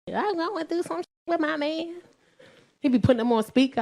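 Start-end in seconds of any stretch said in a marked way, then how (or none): 0.1-2.0 higher, softer mock-tearful caller; mock crying. Client calling a relationship specialist, mock crying. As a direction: imitate a weepy client on the phone. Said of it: "calling him crying".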